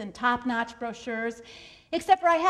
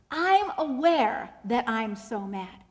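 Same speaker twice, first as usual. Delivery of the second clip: slow, deliberate naming of the feeling; measured self-awareness; 2 semitones lower, slower than usual. Shown as a demonstration. Coach models saying it differently, slow and aware. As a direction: say it slowly, stepping back from the anger. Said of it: "I want you to say it different".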